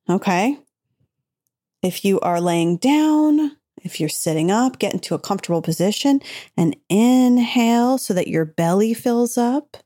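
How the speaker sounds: calm guided breathing voice; gentle, soothing meditation guide. Acted. Leads a breathing exercise.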